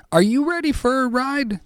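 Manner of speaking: a rally call to get the listeners ready to ride; hype announcer. Acted. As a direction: sell it like a ringmaster opening the show. Host hypes up his listeners.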